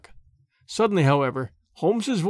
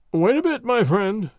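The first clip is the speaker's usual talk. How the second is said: burly inspector stopping him; 4 semitones higher than usual. Acted. Jones blocks the door.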